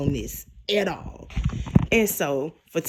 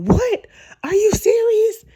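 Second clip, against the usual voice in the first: high, louder incredulous question; jumping high in mock shock; shocked disbelief; 13 semitones higher, 5 dB louder than usual. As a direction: act out stunned disbelief, voice shooting up. Acting out Zach's shocked reaction.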